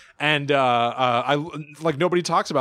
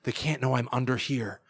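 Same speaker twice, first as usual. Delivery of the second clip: hushed, softer quote; quietly imitated worry; hiding baby; 2 semitones lower, 6 dB quieter than usual. Tommy hiding from the old ladies.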